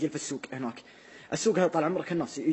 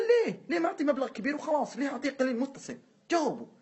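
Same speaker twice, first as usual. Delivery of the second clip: questioning teacher voice; 8 semitones higher than usual. Retold or imitated. Doctor quizzing the kids.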